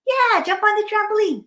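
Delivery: high-pitched cartoon voice; eager invitation. Bear invites Hippo to jump, high and eager. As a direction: urge a friend on in a high voice.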